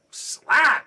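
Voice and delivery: high, explosive imitated smack; sudden loud "slap" sound effect; loud slap noise. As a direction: shout out the impact like a hard slap. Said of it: "It sounded like dropping a steak".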